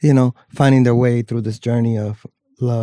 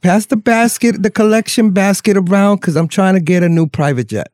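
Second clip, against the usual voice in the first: Southern preacher voice; 5 semitones higher than usual. Acted. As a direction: preach the collection like a televangelist. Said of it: "my Southern preacher voice".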